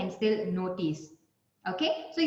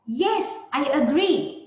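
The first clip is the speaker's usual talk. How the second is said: louder, slow, firm agreement; agreeing; 4 semitones higher, 5 dB louder, slower than usual. Shown as a demonstration. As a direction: say it like you fully agree. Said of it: "putting your agreement".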